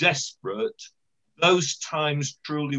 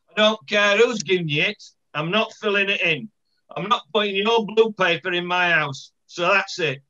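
lightly voiced blunt Hunslet woman; a hint of a defiant local lady refusing the official; lightly acted Hunslet dialect; Hunslet housewife; 3 semitones higher, 3 dB louder than usual. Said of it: "this lady in Hunslet".

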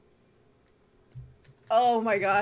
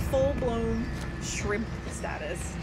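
slow, deliberate weight on "full-blown shrimp status"; emphatic; much slower than usual. Real, not acted. Streamer describing bad posture to viewers, slow and emphatic. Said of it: "listen to me when I say this".

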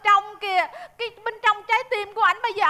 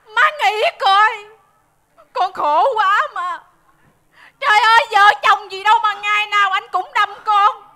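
tearful complaint; 4 dB louder than usual. Acted. Wife complains to mother about her husband, theatrical wailing. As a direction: cry out your grievance with stretched words. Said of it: "mày khóc lóc um sùm".

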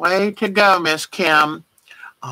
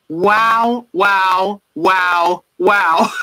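retold wows; much slower than usual. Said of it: "So I wrote her back and said".

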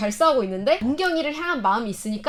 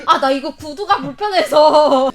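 whiny diva excuse; 5 dB louder, slower than usual. Retold or imitated. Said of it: "염정아가".

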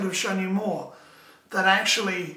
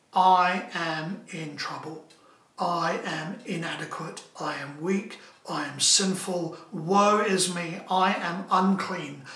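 slow, low, subdued admission; awed confession; 3 semitones lower, slower than usual. Acted. Preacher voicing Isaiah before God's glory, humbled. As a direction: confess it slowly, lightly acted. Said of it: "Isaiah's response is to say".

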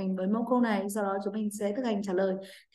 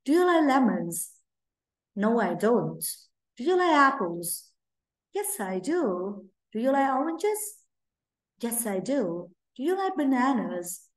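question and answer drill; 2 semitones higher, slower than usual. Shown as a demonstration. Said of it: "thực hành với cô nhé".

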